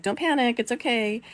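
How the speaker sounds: high-pitched nervous reassurance; retold keep-calm voice; reassuring herself. Soothing herself and babies in back.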